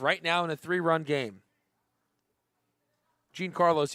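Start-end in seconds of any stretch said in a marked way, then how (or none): 3.3-3.9 Gene Carlos run quickly together; quick run-together name; said fast. Shown as a demonstration. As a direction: say the name fast, as one word. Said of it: "if you say that fast enough".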